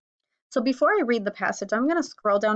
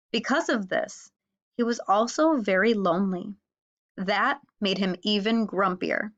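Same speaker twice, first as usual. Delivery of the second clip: put-on clear, expressive read-aloud for kids; story narration. A narrator's reading. Teacher reading a fable aloud to students, storybook narration.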